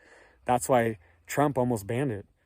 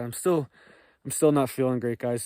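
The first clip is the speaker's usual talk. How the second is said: hoarse, under-the-weather voice; sick and hoarse, pushing through. Real, not acted. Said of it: "listening to my hoarse voice".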